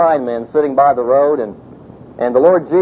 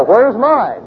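high, pleading question; high plaintive Adam asking for his own; 8 semitones higher than usual. Acted. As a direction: ask like a left-out child. Adam voiced wanting a mate.

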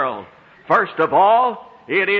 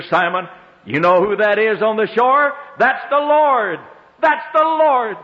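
higher and rising, awed as he spots the Lord; excited recognition; 4 semitones higher than usual. Acted. Disciple John telling Peter on the boat, awed and excited. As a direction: call out the discovery with wonder.

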